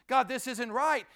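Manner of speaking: angry Jonah. Acted. Jonah quarreling in God's face, loud and angry. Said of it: "He is actually out of anger".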